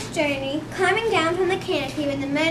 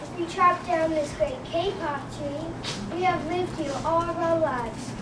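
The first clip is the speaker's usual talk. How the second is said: squeaky voice; 4 dB quieter than usual. Acted. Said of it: "In a squeaky voice, he piped".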